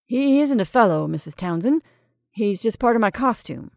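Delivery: muffled through thick cloth. Acted. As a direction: talk through a heavy costume. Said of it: "his voice muffled by the thick cloth".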